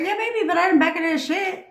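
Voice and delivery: high, defiant brush-off. Real, not acted. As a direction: wave it away, stubbornly. Defiant retort to herself.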